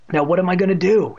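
worried. A narrator's reading. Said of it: "he wondered".

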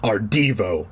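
low creature voice, mock solemn; growling. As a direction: keep the low growl for a joke. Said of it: "the voice growled".

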